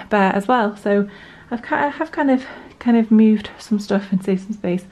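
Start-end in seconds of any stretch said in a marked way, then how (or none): 1.5-4.8 out of breath. Real, not acted. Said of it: "Oh, I'm so out of breath".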